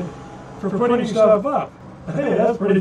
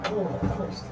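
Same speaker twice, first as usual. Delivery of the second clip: quiet strained groan; breathing through the cramp; leg cramp pain; 11 dB quieter than usual. Real, not acted. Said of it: "we'll be quiet for a moment".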